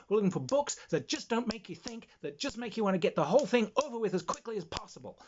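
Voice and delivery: high, loud New Jersey agent laying down the law; New Jersey literary agent. Acted. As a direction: lecture insistently in a high New Jersey accent. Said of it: "it's a New Jersey accent".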